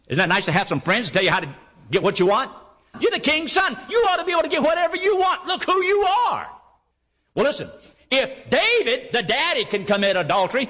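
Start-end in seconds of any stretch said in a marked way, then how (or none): 3.0-6.5 tempting voice. Retold or imitated. Voicing tempter urging Amnon.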